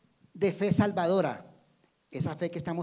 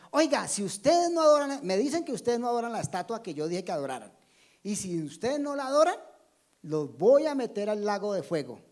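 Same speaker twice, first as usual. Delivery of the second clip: lightly acted king's threat, pitched up on the conditions; mildly imperious warning, louder on the opening; Nabucodonosor; 3 semitones higher, 5 dB louder than usual. King threatening Daniel's friends with fire, lightly acted threat. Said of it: "el rey Nabucodonosor le dice".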